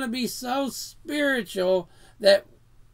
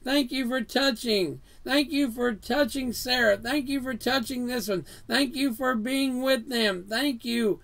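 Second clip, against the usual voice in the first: thankful prayer; 3 semitones higher than usual. Shown as a demonstration. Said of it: "Same thing with our prayers".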